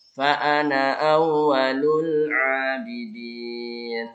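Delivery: "ana" with a short final a. Shown as a demonstration. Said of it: "hanya dibaca pendek".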